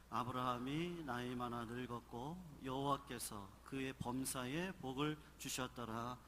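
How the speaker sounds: ordinary talk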